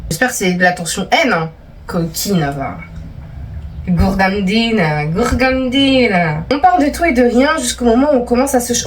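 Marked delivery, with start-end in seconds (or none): 1.9-6.4 teasing drawl. Acted. Teasing the reader about the tension, slow mock drawl. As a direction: tease her, stretch out gourgandine.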